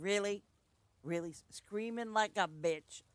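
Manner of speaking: lively retold retort, stress on "bitch"; emphasis on bitch. Storyteller retelling their own comeback, stressing "bitch". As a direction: lean hard into the word "bitch". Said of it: "I emphasized the word bitch".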